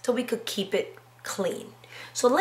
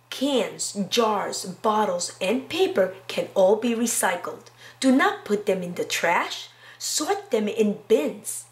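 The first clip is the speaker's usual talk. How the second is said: slow storybook read, evenly paced; reading to children. Acted. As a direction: read it aloud to a class. Reads picture book aloud.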